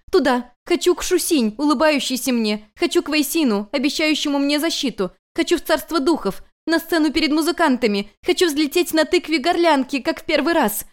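high, loud string of wants; a weeping girl shouting all she longs for; frantic demands. Acted. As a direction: cry out every wish, desperate.

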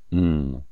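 low throat-clearing hum; cough. A narrator's reading. Agent cornered by the commander's argument, low throat-clearing cough. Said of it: "Vous toussez, monsieur?".

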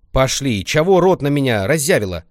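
loud, high sharp command; stern menacing. Acted. Grandma orders the dawdling girl, stern threat. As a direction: bark it like a stern granny. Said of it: "грозно сказала она".

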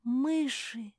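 high, loud cry; yelling. A narrator's reading. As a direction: cry out in alarm. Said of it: "закричала Жози".

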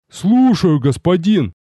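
soldier snapping to attention; eager soldier reply. Acted. Воин откликается на зов.

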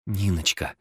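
soft, broken murmur of a name; grieving mumble; mumbled. A narrator's reading. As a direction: barely voice it in grief. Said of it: "пробормотала Катя".

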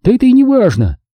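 high-pitched irritated dismissal. Acted. Tipsy woman waving off a question, irritated. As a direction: brush it off in a high, impatient voice. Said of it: "раздражённо отмахнулась".

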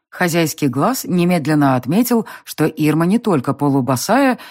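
usual speaking voice

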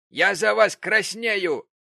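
loud slow reproach. Acted. Prig shames Gamp.

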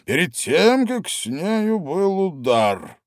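king triumphant, pointing at tarts. A narrator's reading. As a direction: lay it out as obvious proof. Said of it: "с торжеством сказал король".

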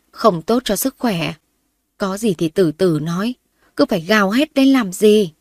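loud anxious fussing; wife anxiously scolding her wheezing husband; worried scolding wife. Acted. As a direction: fret and scold him at once. Mother anxiously scolds ailing husband.

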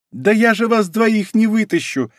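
high, slow cry of vexation; vexed, helpless call; frustrated cry. A narrator's reading. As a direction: cry out in exasperation, drawing it out. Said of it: "с досадой в голосе крикнула девушка".

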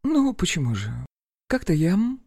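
awkward hedging, trailing into a hum; hesitant. Acted. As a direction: falter and break off mid-confession. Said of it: "Ирина замялась".

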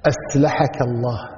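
أسلحك said with a plain S in place of the emphatic Ṣ, slow and deliberate; نطق ساخر بالسين بدل الصاد; mocking mispronunciation. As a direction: drag out أسلحك with a thin S as a teasing jab. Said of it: "حط السين مكان الصاد".

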